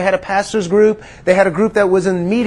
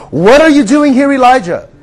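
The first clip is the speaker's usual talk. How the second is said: loud, high, challenging call; booming voice of God; 4 semitones higher, 4 dB louder than usual. Acted. God calls to Elijah in the cave, booming and loud. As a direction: thunder the question down at him.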